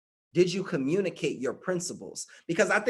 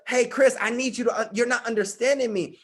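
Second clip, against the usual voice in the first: higher-pitched, mildly pleading role-play; acted frustrated plea; 5 semitones higher than usual. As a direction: act out a partner straining to be understood. Voices a frustrated partner explaining themselves.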